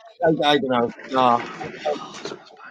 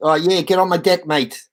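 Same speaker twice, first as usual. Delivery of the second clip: attempted South African accent. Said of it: "That's South African".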